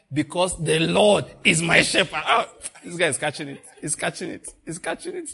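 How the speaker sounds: chuckling through the words; preacher tickled by a listener; laughing. Real, not acted. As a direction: laugh as you say it.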